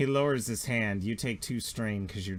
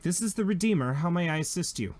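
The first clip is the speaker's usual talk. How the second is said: officer on comm; 4 semitones higher than usual. Acted. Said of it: "they're like".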